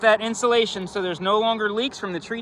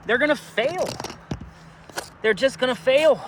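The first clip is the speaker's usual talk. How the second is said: winded from climbing the roof; breathless, puffing between words; out of breath; 3 semitones higher than usual. Real, not acted. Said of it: "I'm just out of breath".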